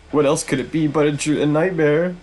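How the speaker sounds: high, hurried disbelief; agitated, high-voiced denial; panicked bishop. Bishop convinces himself it is a nightmare.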